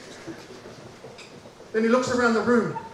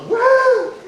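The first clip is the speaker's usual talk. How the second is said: stunned what; 13 semitones higher, 7 dB louder than usual. Retold or imitated. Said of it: "I'm like".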